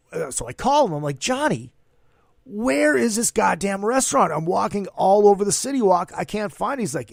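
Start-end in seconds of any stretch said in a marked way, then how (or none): 1.2-6.8 higher-pitched, exasperated retelling of a complaint; mock-frustrated, raised pitch. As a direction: re-enact griping at a lost friend's directions. Exasperated phone call to his friend.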